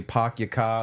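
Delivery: a hint of a Boston accent, dropped r's; half-hearted Boston accent with no r's. Shown as a demonstration. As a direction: try the Boston accent, badly. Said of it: "I can't do the, uh, the accent".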